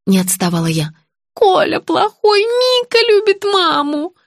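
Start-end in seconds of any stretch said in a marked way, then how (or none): 1.3-4.1 put-on high, drawn-out childlike refrain; automatic refrain. A narrator's reading. Patient repeating her stock phrase, automatic. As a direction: recite it slowly in a high voice. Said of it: "на автомате произнесла больная".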